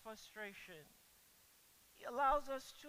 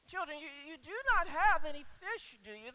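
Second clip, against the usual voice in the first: louder, higher gentle scolding; mild rebuke; 5 semitones higher, 11 dB louder than usual. Acted. Jesus to the fishless disciples, a mild rebuke. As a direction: chide them kindly, like a parent. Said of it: "this is sort of a mild rebuke".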